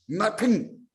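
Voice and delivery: normal talking voice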